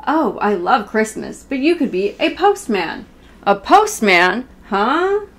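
a gentle read-aloud, half sung in places; reading to children. Acted. Reading a Sesame Street book to her viewers, sing-song read-aloud.

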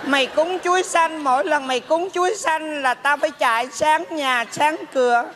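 drawn-out mock-ghostly grumbling; put-on spirit mother, scolding. (giả hồn mẹ trách con)

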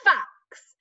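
"fox" with the lip bitten on the f; fox said clearly. Shown as a demonstration.

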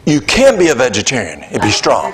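quoted while laughing; laughing quote. Retold or imitated. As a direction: let the laugh run through the words. Pastor's reversed verdict, crowd laughing.

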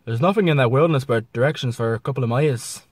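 lightly put-on Canadian accent; a hint of a Canadian accent; mock Canadian accent. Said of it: "Then you got to Canada".

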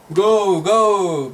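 Go, go with short clipped vowels and no trailing u; short go without u. Shown as a demonstration. Teacher shows how gogo sounds without the u, crisply. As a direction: bite off each go short, no long vowel. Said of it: "Pero sin la U".

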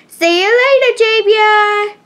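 high, sing-out farewell; called-out goodbye. Acted. Sophia saying goodbye to Javia, high call. Girl calling goodbye to a friend.

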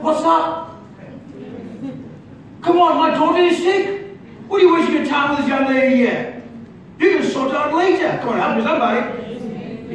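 hammed-up urgent plea, pitch up; mock impatient father. Preacher pretending to hurry Jesus for his daughter, mock urgent. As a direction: play a frantic dad pushing Jesus along.

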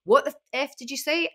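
squaring up to a teenager, mock menacing; confronting. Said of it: "I would just walk back up and I went".

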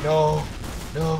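raging gamer yell. Real, not acted. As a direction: shout it in protest. Caught as spy, yelling.

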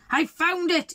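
"I found it" called out high and bright; the wolf cries out in delight at his find; happy shout. A narrator's reading. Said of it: "he shouted".

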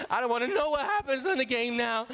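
mock crying child's protest; tearful kid. Upset boy to his family as the Mets lose, tearful. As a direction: whine it like a tearful ten-year-old. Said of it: "I started crying".

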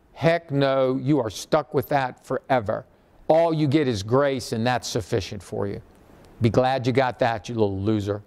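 mock the harsh God of bad teaching, low and dismissive. God refusing Paul as wrongly taught, low scornful mock. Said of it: "It's how it's taught".

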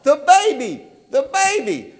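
put-on frantic interruption about the baby. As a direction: blurt it out in a panic. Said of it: "it's almost like a frantic sound".

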